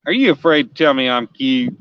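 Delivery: playful put-on redneck twang; goofy redneck accent. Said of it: "Said in my goofiest redneck accent".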